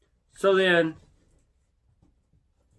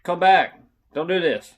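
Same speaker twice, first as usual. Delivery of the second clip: raised-voice mock yell; retold yelling; 5 semitones higher, 4 dB louder than usual. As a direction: call the dog back, louder and higher. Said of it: "Now I'm yelling at him".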